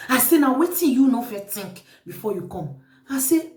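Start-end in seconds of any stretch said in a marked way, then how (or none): 0.4-2.8 reproachful question in full voice; firm rebuke. Retold or imitated. Host repeating the question to accusing visitor, firm rebuke. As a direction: put the question squarely, at normal volume.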